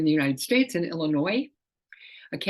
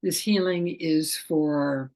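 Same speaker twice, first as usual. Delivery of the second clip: slow invocation; much slower than usual. Shown as a demonstration. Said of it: "And I'll say".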